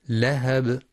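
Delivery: لهب with the final ب released in a small echo; qalqalah on the ba. Shown as a demonstration. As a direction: bounce the closing ب of لهب. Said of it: "الباء في كلمة".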